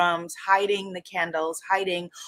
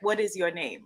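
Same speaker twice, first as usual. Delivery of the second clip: put-on softer Igbo-accented question; bad Igbo teacher accent; 5 dB quieter than usual. Igbo teacher quizzing a new student, badly imitated accent. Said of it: "for doing a very bad accent".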